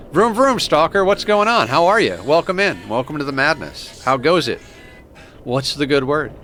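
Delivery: high, loud hype hello; excited greeting. Real, not acted. Streamer hyping up a viewer who just arrived, high and loud. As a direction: welcome them in with big energy.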